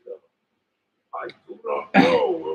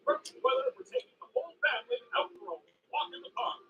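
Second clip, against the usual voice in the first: cheery announcer; 4 dB louder, faster than usual. Acted. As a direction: greet the town like a narrator. Cheery town announcer intro.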